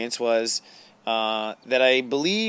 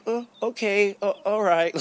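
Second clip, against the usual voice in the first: other side; 8 semitones higher than usual. Retold or imitated. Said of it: "I found my other side be like".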